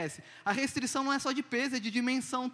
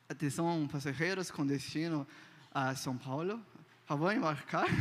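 lower, announcer-like airline call, lightly put on; mock flight attendant announcement; 6 semitones lower, 3 dB quieter than usual. Shown as a demonstration. Imitating the attendant for his viewers, lower announcer voice. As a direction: play a stiff gate announcement, half-joking. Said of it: "Que horrível".

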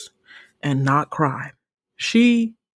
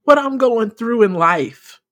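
amazed outcry; 7 semitones higher, 5 dB louder than usual. Retold or imitated. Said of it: "I was just like".

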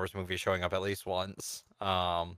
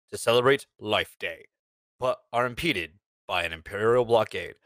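movie voice; 4 semitones lower than usual. Shown as a demonstration. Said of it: "I gotta get my movie voice".

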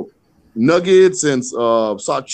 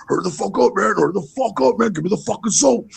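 imitated impatience; 4 semitones higher, faster than usual. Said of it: "And Joe's like".

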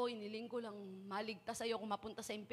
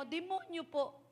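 put-on child; 5 semitones higher, slower than usual. Child answers again.

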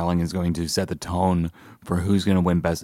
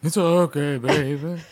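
mock consoling; 8 semitones higher, 7 dB louder, much slower than usual. Consoling friend over a loss.

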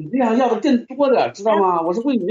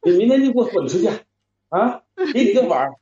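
fast, louder barked order to get out; angry order; 3 dB louder than usual. Acted. Husband ordering his wife out of the house, loud and angry. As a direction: throw her out of the house.

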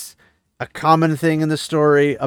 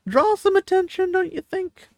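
sarcastic question. Real, not acted. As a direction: ask it as if the answer is obvious. Mocking the noisy plot point.

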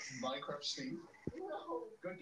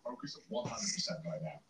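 much lower, serious mock focus; deep voice; 13 semitones lower than usual. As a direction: drop into a deep pompous voice. Mock brain-power bit.

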